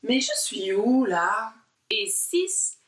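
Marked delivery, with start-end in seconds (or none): 0.0-1.5 a bit louder, lost and puzzled; confused. Shown as a demonstration. Teacher acting lost while looking left and right. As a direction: wonder aloud where you are. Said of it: "vous dites".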